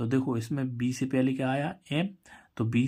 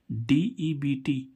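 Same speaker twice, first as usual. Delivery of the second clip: slow spelling; much slower than usual. Shown as a demonstration. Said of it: "spelling out a word".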